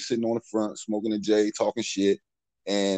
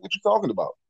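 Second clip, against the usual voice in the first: higher-pitched puzzled protest; retold bewilderment; 10 semitones higher, faster than usual. Accused man answering his neighbor, retold bewilderment. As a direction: reenact a baffled comeback.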